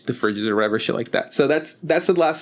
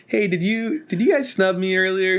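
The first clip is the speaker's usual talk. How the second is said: raised, lightly put-on hurt voice; imitating Haley Joel Osment; 6 semitones higher than usual. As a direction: ask it high and half-hurt. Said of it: "He was like".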